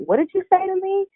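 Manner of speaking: high, loud imitation of a furious snap; retold angry confrontation. Wrestler snapping back at a drunk heckler, mock fury. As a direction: throw the heckler's words back at him.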